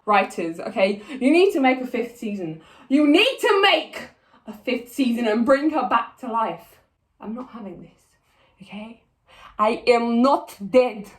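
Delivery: put-on emphatic Russian-accented demand; Villanelle. Assassin telling writers to revive her, Russian accent. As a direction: lay down the law in a Russian accent. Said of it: "I will turn into Villanelle".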